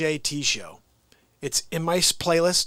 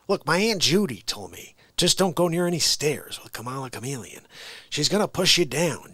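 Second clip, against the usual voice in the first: lightly voiced folksy politician telling a tale; rambling elder-statesman impression; Joe Biden. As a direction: relay an aunt's warning as a muddled president. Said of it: "a good Joe Biden impression".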